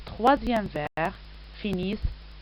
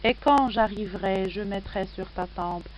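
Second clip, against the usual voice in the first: poem recitation. Acted. Reads the poem aloud.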